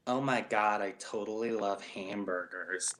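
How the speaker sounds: American accent. Shown as a demonstration. British friend mimicking Americans on request, mock American accent. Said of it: "I wanna hear you do an American accent".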